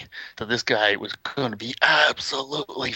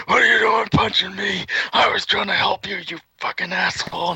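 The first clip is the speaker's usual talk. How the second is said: high mock-angry shout, easing toward the end; outraged scolding; 8 semitones higher than usual. Friend grabs Conrad after stray punch, outraged scolding. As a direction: act a betrayed helper telling him off.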